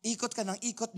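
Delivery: ordinary delivery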